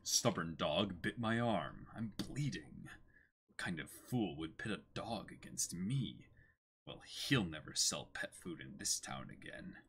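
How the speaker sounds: low muttering villain. Acted. Wounded villain grumbles low and soft. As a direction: grumble low about the bite.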